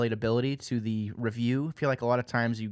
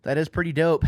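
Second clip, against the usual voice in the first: higher and louder, hyped up; excited; 6 semitones higher, 5 dB louder than usual. Real, not acted. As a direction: really sell it, pumped. Host repeats agreement louder.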